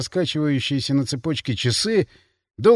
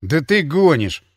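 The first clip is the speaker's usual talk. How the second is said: incredulous; 4 dB louder, slower than usual. Acted. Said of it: "не выдержал я".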